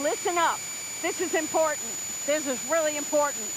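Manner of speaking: mock announcement voice; lightly voiced warning sign; quoting a sign. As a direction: read it like a stern notice. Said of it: "It's saying".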